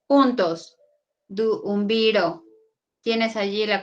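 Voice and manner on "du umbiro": "Du, umbiro" slowly, split between the two u sounds; "Du, umbiro" drawn out with the vowels kept apart; separated vowels. Shown as a demonstration. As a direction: break "Du, umbiro" after Du, teacher demonstrating. Reads out example word split at hiatus.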